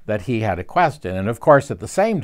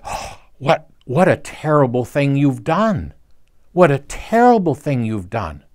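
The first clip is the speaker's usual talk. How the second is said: feigned horror; 3 semitones higher than usual. Retold or imitated. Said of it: "And he feigned horror".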